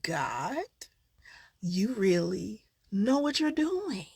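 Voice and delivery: soft, choked-up whisper, slowing; real tears breaking through the thanks; tearful whisper. Real, not acted. Vlogger thanking God for lifting her grief, in a tearful whisper.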